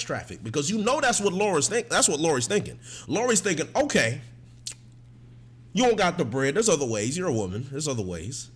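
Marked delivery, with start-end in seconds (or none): 3.8-8.5 a hint of an eerily calm mom, low; lightly voiced creepy calm mom; calm white mom voice. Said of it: "real calm white mom voice".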